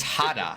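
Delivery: Hada with a sounded H at the start; demonstrated pronunciation. Shown as a demonstration. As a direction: say "Hada" slowly, opening on a breathy H. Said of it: "they said to pronounce it".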